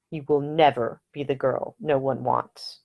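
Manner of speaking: low and slow, tender and sincere; tender, slow reassurance. Acted. Nick leans forward to reassure Ida, slow and tender.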